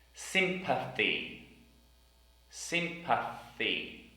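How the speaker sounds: Sympathy said slowly, th blown; Sympathy, drawn out; slow careful sympathy. Shown as a demonstration. Teacher modelling Sympathy slowly. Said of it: "T H sound in the middle".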